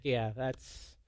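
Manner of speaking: low, soft, sheepish aside; dry self-reproach, voice dropped right down; deflated self-mockery. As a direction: sink into a quiet, rueful mumble. Deflated dad mocking himself after outburst.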